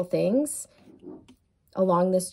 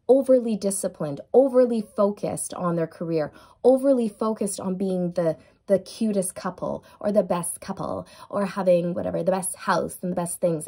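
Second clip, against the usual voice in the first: mock snobby voice. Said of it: "I don't know why I'm talking like this".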